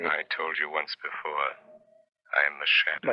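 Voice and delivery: menacing phantom voice; eerie ghostly voice. Acted. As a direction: speak like an unseen ghost. Shadow reveals himself.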